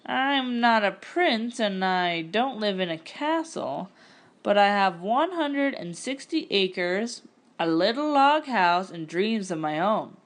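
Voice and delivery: slow, sincere proposal; a shy farmer proposing to Fanny, slow and sincere; slow and earnest. Acted. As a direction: take your time, mean every word. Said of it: "said Heber slowly".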